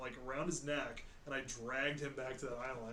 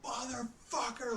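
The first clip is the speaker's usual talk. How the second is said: cussing; 9 semitones higher, slower than usual. Retold or imitated. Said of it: "I'm cussing a blue streak".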